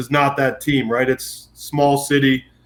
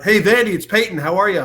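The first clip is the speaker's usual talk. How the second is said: a higher-pitched friendly caller; Peyton calling; 5 semitones higher than usual. Retold or imitated. Peyton introduces himself on the phone, a higher friendly greeting. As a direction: play the famous guy phoning in, higher. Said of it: "I'll be like".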